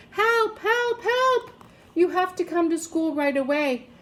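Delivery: high urgent cry for help; panicked boy. A narrator's reading. Ben phones his mother, high and panicked. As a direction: plead frantically down the phone.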